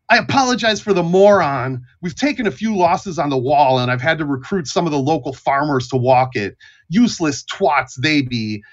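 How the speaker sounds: lightly voiced gatekeeper grumbling; a hint of disgusted old soldier; gruff gatekeeper. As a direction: complain about useless recruits, lightly in character. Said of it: "you can see a man's face".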